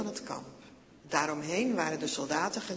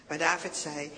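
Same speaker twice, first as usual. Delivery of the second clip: plain reading voice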